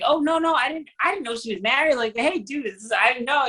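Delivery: panicked lover. Retold or imitated. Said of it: "It's like".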